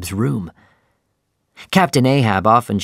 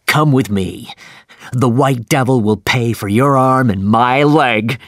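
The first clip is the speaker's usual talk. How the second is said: happy shout; 3 dB louder than usual. Acted. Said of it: "he shouted happily".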